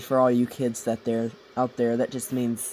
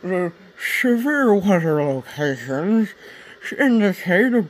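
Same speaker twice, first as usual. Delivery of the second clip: slow, higher, louder TV announcer read; mock newscaster; 5 semitones higher, 6 dB louder, slower than usual. Podcast host jokingly reading a tornado warning, mock broadcast voice. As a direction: play a hammed-up weather-alert anchor. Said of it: "This is my sportscaster".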